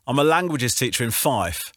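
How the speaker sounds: caller's Fife lilt; Fife accent. Real, not acted. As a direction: say it in a broad Fife voice. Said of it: "That's an accent".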